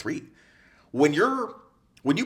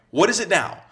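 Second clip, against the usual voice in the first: mock exasperated; 8 semitones higher, 6 dB louder than usual. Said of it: "And you're like".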